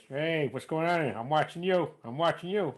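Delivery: soft cartoon-dad take on a movie tough guy; Robert De Niro in Homer Simpson's voice. Shown as a demonstration. Impressionist demoing his accidental voice swap, soft hybrid impression. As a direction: mash a tough guy's lines into a goofy cartoon voice. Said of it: "if I was doing Robert De Niro, I'd be Homer Simpson's voice".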